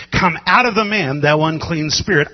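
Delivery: loud, forceful rebuke of a spirit; preacher booming a command; commanding shout. Acted. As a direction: order the demon out with full force. Jesus commanding the demon.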